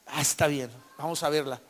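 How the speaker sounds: mock giving-in, back down in pitch; resigned agreement. Husband giving in to his insistent wife, resigned.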